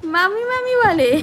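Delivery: put-on high, slow echo of the toddler; echoing the child. Shown as a demonstration. Mother echoing her toddler's word, high and slow. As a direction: repeat his word back sweetly. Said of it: "Manu কি বলে মনু?".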